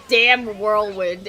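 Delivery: slow, mild New York Italian quote; drawn-out New York Italian accent. Retold or imitated. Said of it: "New York Italian".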